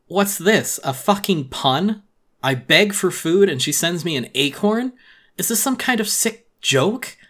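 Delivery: indignant yelling at a bad joke; outraged. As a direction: spit out the questions in fury. Billy outraged at the pun letter.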